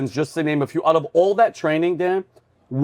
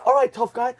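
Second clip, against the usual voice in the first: higher-pitched mock drill-instructor taunt; retold yell, raised in pitch more than volume; 8 semitones higher than usual. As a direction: imitate an instructor dressing down a recruit. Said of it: "they're all yelling with their hats".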